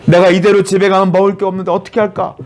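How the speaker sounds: acted worry; worried. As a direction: imitate a worker fretting over going hungry. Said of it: "얼마나 고민스러웠을까요?".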